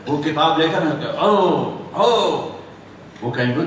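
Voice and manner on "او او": two drawn-out celebratory whoops; triumphant cry. Acted. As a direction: call out in joy, twice. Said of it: "وہ ایک نعرہ لگائے". (خوشی کا نعرہ)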